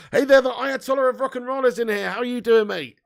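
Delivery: excited shout-out to a regular; loud welcome. Real, not acted. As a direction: boom out the greeting. Welcoming a viewer.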